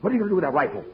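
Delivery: high, loud panicked protest; alarmed. Acted. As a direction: cry out in alarm at him. Sees partner raise rifle.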